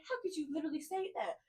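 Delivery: quietly wounded, letting the hurt sink in. Retold or imitated. The same complaint said again.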